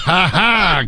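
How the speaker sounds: forced courtesy laugh; a dutiful fake ha ha; polite laugh. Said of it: "I courtesy laugh him the whole show".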